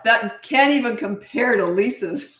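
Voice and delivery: slow playful line breaking into a laugh; dad joking, half laughing; chuckling mock verdict; laughing tease. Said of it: "he'd say to my mom".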